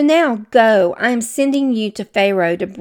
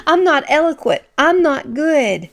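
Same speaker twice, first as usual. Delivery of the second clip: doubting Moses; 7 semitones higher, 4 dB louder than usual. Retold or imitated. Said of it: "is what he says".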